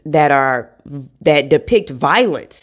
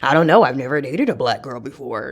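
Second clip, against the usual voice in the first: hesitant guy; 3 semitones lower than usual. Retold or imitated. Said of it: "they're like".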